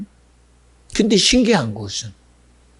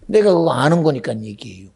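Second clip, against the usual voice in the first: normal talking voice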